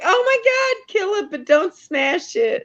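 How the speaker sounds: high-pitched squealed plea, laughing at the end; mock panic. Friend acting out how she begs someone to kill it, mock panic. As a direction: play up a squeamish freak-out. Acts out own panic at bugs.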